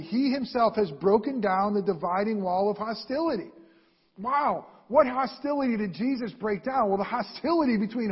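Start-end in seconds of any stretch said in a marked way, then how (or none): 0.0-3.5 firm stress on "he himself"; emphatic. Retold or imitated. Preacher repeating scripture on the dividing wall, emphatic. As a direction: drive it home from "he himself" onward. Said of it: "they'll say again emphatically".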